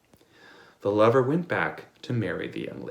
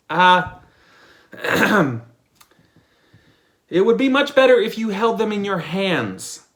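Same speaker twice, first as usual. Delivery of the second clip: higher, louder advice; mildly raised advising voice; lightly voiced lover; 8 semitones higher, 7 dB louder than usual. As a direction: offer the fix with a throat clear. Lover advises trouser man.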